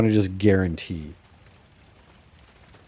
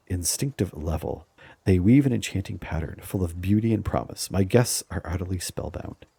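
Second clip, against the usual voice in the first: measured fantasy storyteller reading; dramatic story narration; 3 semitones lower than usual. Acted. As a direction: narrate the ritual with a sense of ceremony. Reads game's event text aloud.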